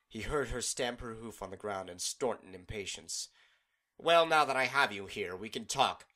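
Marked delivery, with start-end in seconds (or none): 4.0-6.1 firm loud. Acted. Celestia confronts Discord impatiently.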